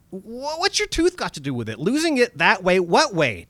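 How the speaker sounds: spooked, pushing for an answer; rattled Dennis. Acted. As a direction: stammer it out, scared of the stranger.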